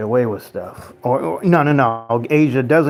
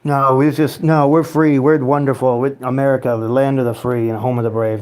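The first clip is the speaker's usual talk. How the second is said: kidding, mock patriotic. Streamer kidding chat about the land of the free, mock patriotic. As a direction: play at proud flag-waving. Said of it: "You know that I'm kidding around".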